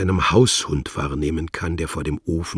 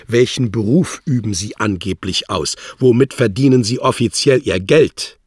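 louder, higher, demanding diplomat; domineering official; 4 semitones higher, 6 dB louder than usual. Acted. Wladimir interrogates his agent, loud and domineering. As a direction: grill him like a superior.

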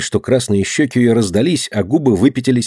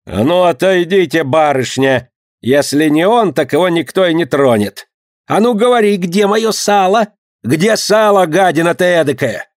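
angry market woman; 6 semitones higher than usual. A narrator's reading. Angry vendor scolds the thief, high shouting. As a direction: bawl at the thief like a furious vendor.

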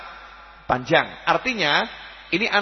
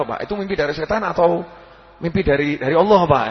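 cheeky son. Retold or imitated. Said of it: "Ini anak kurang ajar ini kan".

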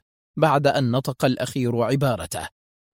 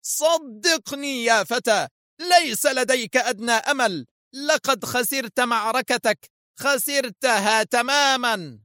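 slow, high, fierce through clenched teeth; 11 semitones higher, slower than usual. A narrator's reading. Foster tells Adham he has lost, slow fierce menace. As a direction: savour each word of the threat. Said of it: "وضغط أسنانه في شراسة".

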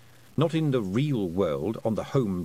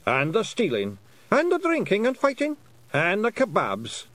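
excited pixie voice; 10 semitones higher, 4 dB louder than usual. Acted. Feagles join in excitedly.

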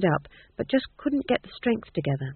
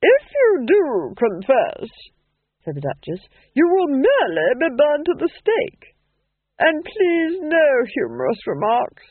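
loud cold slow interrogator; menacing noblewoman questioning a witch; cold Duchess; 8 semitones higher, 6 dB louder than usual. A narrator's reading.

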